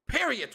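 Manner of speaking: "Period." pitched high, ending on a crisp T; final T. Shown as a demonstration. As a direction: say "Period." with the D turned into a T. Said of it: "With a T at the end".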